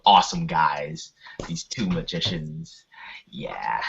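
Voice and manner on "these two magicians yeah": whisper. Pretend. Gushing about hosts.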